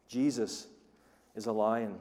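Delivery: ordinary talk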